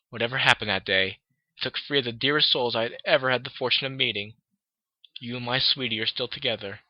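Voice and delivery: lightly voiced unicorn saying goodbye; Rarity reading her letter. Rarity writing a last farewell to Twilight, gently voiced.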